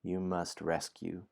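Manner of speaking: story narration. A narrator's reading. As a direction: read it like a bedtime adventure. Reads the story aloud.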